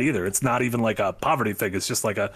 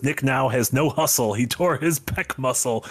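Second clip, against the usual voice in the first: Gruntilda voice; slower than usual. Acted. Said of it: "So I just read that in, like, an old witch voice".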